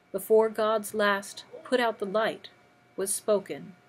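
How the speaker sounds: measured poetry recital with pauses between lines; poetry reading. Acted. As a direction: read the poem aloud, phrase by phrase. Reads a Robert Frost poem.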